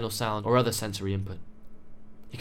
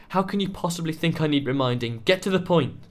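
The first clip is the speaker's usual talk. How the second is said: loud, much higher shouting that builds; furious; 6 semitones higher, 5 dB louder than usual. A narrator's reading. Young man losing patience with the researchers, furious shout. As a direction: rage at being told what he knows. Jessie furious at being reminded.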